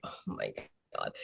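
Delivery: whispered in awe; breathless whisper. Retold or imitated. Fan spots her idol, awed whisper. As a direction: breathe it out, starstruck. Seeing Rhea backstage.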